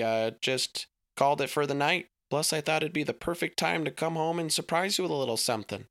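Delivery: bright, chatty dad coming home; lightly voiced jolly father; cheerful dad voice.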